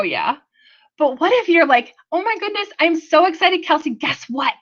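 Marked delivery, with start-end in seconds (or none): 0.0-0.4 pitying yes. Acted. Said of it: "Somebody who feels sorry for you". 2.1-4.5 acted gushing excitement, starting higher; excited caller. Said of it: "'cause you're excited".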